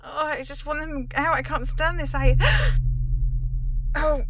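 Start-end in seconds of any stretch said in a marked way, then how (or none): 2.4-3.9 high sudden gasp of shock; sharp shocked gasp. Acted. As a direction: gasp as if struck.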